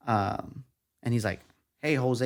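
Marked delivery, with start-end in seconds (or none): 1.8-2.3 lightly imitated country accent; a hint of rowdy country twang. News director greeting the intern, light country accent. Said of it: "he had this rowdy country accent".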